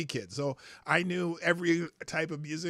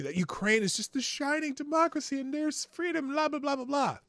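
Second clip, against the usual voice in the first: mocking; 8 semitones higher than usual. Mocking the Ukraine democracy line.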